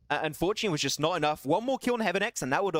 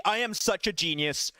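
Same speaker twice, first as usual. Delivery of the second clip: usual speaking voice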